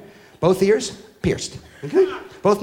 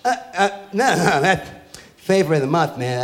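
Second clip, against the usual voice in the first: put-on lazy teen voice; 3 semitones lower than usual. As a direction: shrug it off like a clueless teen. Kid explains flavor.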